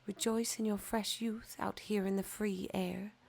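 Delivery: hushed, airy plea; breathy breeze voice. Acted. Breeze and sunshine urging the fir, hushed and airy. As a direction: whisper it like wind.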